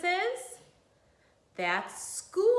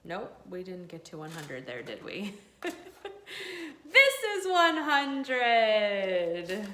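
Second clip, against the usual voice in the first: laughing; 3 dB louder, slower than usual. Real, not acted. Catches her counting mistake, laughs.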